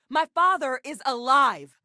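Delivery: high, emphatic outburst of disbelief; stunned outburst. Acted. Telling someone her father is alive, stunned outburst. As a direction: voice leaping up in shock. Acted revelation about speaker's father.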